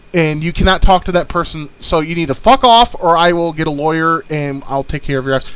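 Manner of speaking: furious ultimatum to a pushy debt collector; angry telling-off. Retold or imitated. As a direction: lay into the caller, fed up and firm. Telling off the phone company.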